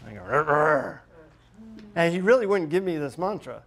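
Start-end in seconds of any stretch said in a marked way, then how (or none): 0.2-1.0 short mock growl of frustration; frustrated growl. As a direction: growl in comic exasperation. Frustrated reaction to the guru friend.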